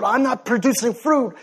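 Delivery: lightly acted fretting branch; mock stressed-out. Preacher voicing a worried branch, mildly stressed out. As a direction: fret a little, as if failing. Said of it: "stress out about".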